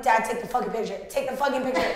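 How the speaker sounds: quick exasperated order, retold with a laugh; mock urgent plea. Trapped tourist urging dad with the camera, brisk mock exasperation. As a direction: rattle off the annoyed order.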